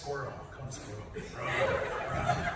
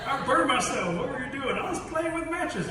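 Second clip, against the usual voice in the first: put-on whiny kid voice; 9 semitones higher than usual. Burned child answers his aunt: high kid voice. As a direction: sound like a guilty little kid.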